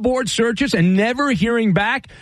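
punchy, upbeat sponsor pitch; host's commercial read, stretched sign-off; radio ad read. Acted. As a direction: sell it with lifted key phrases. Host reads a sponsor ad.

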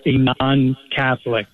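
slow, deliberate weight on "Catholic"; "non-Catholic" said slowly, with "Catholic" stressed. Real, not acted. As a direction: lean on the word "Catholic" to make the distinction clear. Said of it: "I'm stressing the word Catholic".

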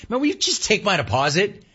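high irritated customer retort; exasperated customer to teller; mock exasperated. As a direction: play it fed up, pitched high. Host voicing himself to teller.

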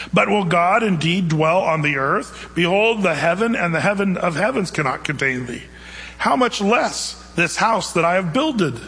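measured, unhurried reading of the verse; scripture reading. Acted. Preacher reading First Kings aloud, measured and unhurried.

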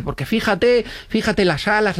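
a hint of the gushing date; enthusiastic girlfriend. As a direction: point out the wings with delight. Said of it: "Y dice".

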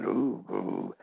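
low soft monster growl. Retold or imitated. Growling to a little girl to play the story's monster, low and soft. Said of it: "and I, I growled".

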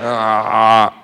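low, quiet hammed-up camp reply; comic answering the fan in a lightly voiced camp tone; mock camp voice. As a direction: play it as a deadpan gay punchline, quiet.

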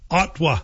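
"Ottawa" squeezed to two syllables, "Ot-wa"; dropped vowel in Ottawa. Shown as a demonstration. Host mimics locals naming their area, "Ottawa" clipped to "Ot-wa". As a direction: say "Ottawa" without its middle vowel. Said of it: "people leave out that extra vowel".

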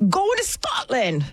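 attempted Scottish accent on the line; a shaky try at a Scottish accent. Guest tries a Scottish accent on air. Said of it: "Is that a Scottish accent?".

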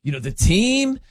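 lightly voiced laid-back buddy, hesitant; a hint of a mellow pal thinking aloud; Patty impression. Host keeps imitating his colleague Patty, light hesitant buddy voice. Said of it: "You got the mannerisms down".

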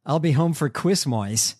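Christmas turned into "Quizmois"; "Quizmois" with an "oy" ending; mock singer's pronunciation. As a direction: imitate an affected "Quizmois" for Christmas. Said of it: "Candace really sounds like that".

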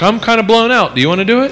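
mock exhausted wife. Wife asks husband to see to the baby, mock complaint. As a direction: raise the pitch for the wife's mild complaint. Wife's complaint voiced in a story.

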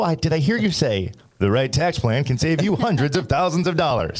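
polished radio host read. Shown as a demonstration. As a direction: deliver it like a radio announcer. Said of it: "I said it in radio voice".

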